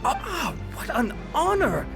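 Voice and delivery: high, gushing welcome; showman's thrilled exclamation; delighted flattery. Acted. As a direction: greet an honored guest with soaring pitch. Presenter flatters an eminent volunteer.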